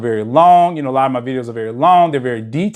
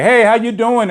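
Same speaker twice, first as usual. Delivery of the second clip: chirpy greeting impression; 8 semitones higher than usual. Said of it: "He likes to say".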